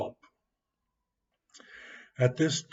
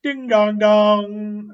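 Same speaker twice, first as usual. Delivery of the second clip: slow, much higher and louder ding-dong; shouted bell call; 7 semitones higher, 9 dB louder, slower than usual. Acted. Boy playing riverboat, shouting the bell call. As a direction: belt it out like a big bell. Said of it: "Then he would shout again and say".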